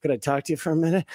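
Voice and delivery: fast, hurried nervous question; nervous ask. Retold or imitated. Young reporter asking a slugger for an interview, nervous and fast. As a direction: rush the request like a jittery kid. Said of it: "I asked Jack Clark nervously".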